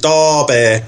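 "Derby" said as "Dar-beh" in local accent. Shown as a demonstration. Showing a difficult local accent, "Derby" in Derby accent. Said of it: "difficult accents like the".

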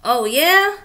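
a grouch telling a monster to get lost; Oscar grouch voice. Acted. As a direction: grouch shooing a visitor. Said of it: "said Oscar".

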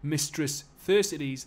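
loud, slow mocking Geordie; big Geordie bruiser, drawn out and loud; Geordie accent. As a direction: sneer the name in Geordie. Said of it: "give him a Geordie accent".

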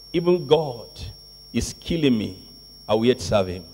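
low, soft, resigned-sounding quote; hushed, low-pitched declaration; quiet vow. Acted. Quotes disciple's vow, first take.

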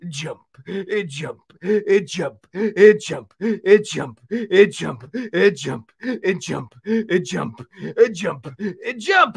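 puppet uncle counting jumps with effort; short bursts of "jump" with little grunts between; puffing from jumping. Pretend. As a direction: play winded while exercising. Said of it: "I'm a little bit out of breath".

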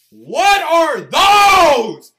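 drawn-out, loud and high mock outrage; hammed-up shoe roast; mocking shout. Real, not acted. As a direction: stretch each word out as you yell at the screen. Mocking kids' shoes on screen.

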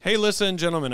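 high, loud, brisker letter opening; straighter greeting. Shown as a demonstration. Host redoing the letter's opening, straighter greeting. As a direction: open brightly without stretching the words. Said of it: "Just do one where it's like".

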